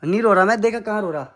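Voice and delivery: loud, sharp denial of crying; angry denial. Real, not acted. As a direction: snap back that you're not crying. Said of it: "गुस्सा आ रहा मेरे को". (गुस्से में ज़ोर से इनकार)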